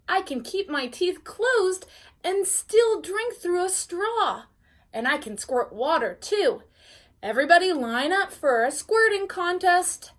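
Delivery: showing off. Acted. Francine showing off tricks.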